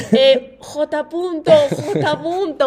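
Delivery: slow, drawn-out loud call down the stairs; calling a name. Retold or imitated. Amigo llama a J punto por la escalera, grito lento y alargado. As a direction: stretch the name out as you shout for a friend. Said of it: "gritando el nombre".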